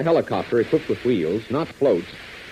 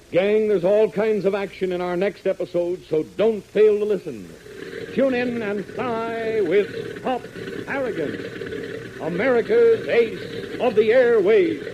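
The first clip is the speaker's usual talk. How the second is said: upbeat, drawn-out sign-off; radio announcer; 7 semitones higher, slower than usual. Acted. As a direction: sell the next episode slowly. Announcer signs off episode.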